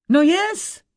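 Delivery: a pleased giant roaring; giant's exclamation. Acted. Giant cheering as the dumplings arrive, booming cry. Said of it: "zvolal obr".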